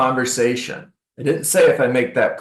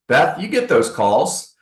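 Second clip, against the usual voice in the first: ordinary delivery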